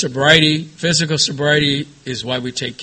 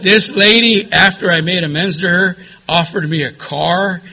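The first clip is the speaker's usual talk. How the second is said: excited telling; 4 semitones higher, 5 dB louder than usual. Real, not acted. Excited punchline of the story.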